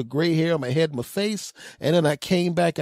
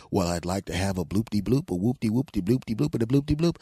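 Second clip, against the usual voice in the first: mock customer order; 6 semitones lower than usual. Himself ordering at the speaker.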